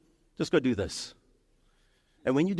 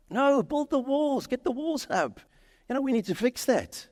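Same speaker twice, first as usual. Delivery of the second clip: outraged Persian king; 11 semitones higher than usual. Retold or imitated. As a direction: play the king demanding the walls go up. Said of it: "this Persian king is like".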